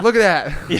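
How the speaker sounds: high, loud mock amazement; imitated shouted disbelief; astonished onlooker. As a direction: call everyone to gawk, imitated. Platoon voiced reacting to silly sight.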